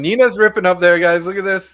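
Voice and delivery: loud, high race call; excited commentary. Real, not acted. Live race commentary, rising excitement.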